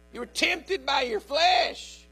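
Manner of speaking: preacher's slow shouted rebuke; shouted point. Real, not acted. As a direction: shout it slowly at the crowd.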